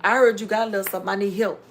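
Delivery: fast, loud, pushy begging; pushy ask for help. Retold or imitated. Imitating someone asking family for money, fast and loud. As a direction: rattle it off like a freeloading relative. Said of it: "That ain't how you ask".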